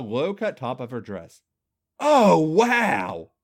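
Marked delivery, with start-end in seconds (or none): 2.0-3.3 high, loud moan. Acted. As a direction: moan with delight.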